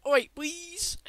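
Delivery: put-on high childish voice on a grown man; mock a man with a kid's high voice. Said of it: "fully grown man has a childish voice".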